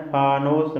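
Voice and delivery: फानूस with a clear u in the last syllable; Persian pronunciation. Shown as a demonstration. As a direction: say फानूस the Persian way, ending in noos. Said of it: "नून पर यहाँ पर जमा देना है".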